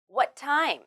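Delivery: "What time" joined with one t sound; linked t. Shown as a demonstration. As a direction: share a single t between "What" and "time". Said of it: "only need to say one t sound".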